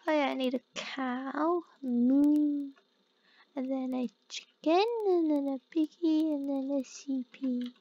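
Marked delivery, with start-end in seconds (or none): 1.8-2.7 cow moo. Pretend. Imitates a cow while playing.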